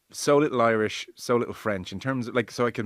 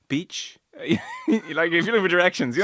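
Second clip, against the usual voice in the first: a touch of foreign-accented pidgin English; lightly accented holiday English for the locals; 6 semitones higher, 4 dB louder than usual. Shown as a demonstration. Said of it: "kind of pidgin English and a touch accented".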